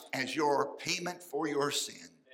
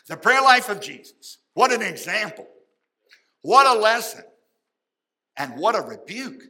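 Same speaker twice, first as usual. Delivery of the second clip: preaching shout; 5 semitones higher, 9 dB louder than usual. Real, not acted. Preacher's rising exclamations.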